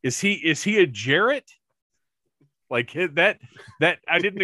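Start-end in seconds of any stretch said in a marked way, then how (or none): 0.0-1.5 a bewildered double take at the voice; surprised. Retold or imitated. To fellow hosts, puzzled by the voice, surprised and higher. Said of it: "I was like".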